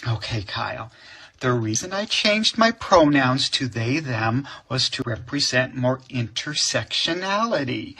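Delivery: calmly explaining. Retold or imitated. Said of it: "so I had to very calmly say".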